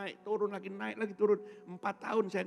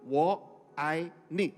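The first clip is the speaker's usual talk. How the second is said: mock Mandarin; 7 dB louder, much slower than usual. Shown as a demonstration. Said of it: "bahasa Mandarin cuma bisa tiga kata".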